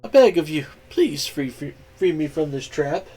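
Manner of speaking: small pleading voice; begging mouse. Acted. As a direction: beg to be set free. Mouse begs to be freed.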